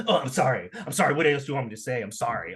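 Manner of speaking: imitating a fake, put-upon sorry; mock the waitress's empty apology; retold grudging apology, dropping off at the end; insincere apology. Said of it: "insincere apology".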